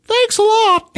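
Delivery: high, strained mock thanks; hammed-up hurt dad; sarcastic dad. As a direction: squeak it out in pain. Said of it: "he goes".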